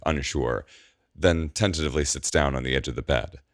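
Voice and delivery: plain reading voice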